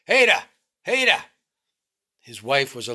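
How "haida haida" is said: loud, much higher calling bellow; bawling upstairs. A narrator's reading. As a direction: bawl it up the stairs. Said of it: "He bawled upstairs".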